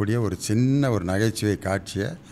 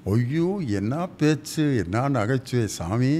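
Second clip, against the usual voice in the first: Manorama's voice; 4 semitones higher, slower than usual. Retold or imitated. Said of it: "Manorama ஆச்சி வந்து கையை பிடிச்சி".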